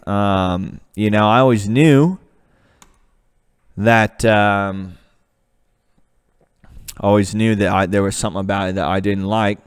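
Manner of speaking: put-on Australian accent. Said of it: "that was British again".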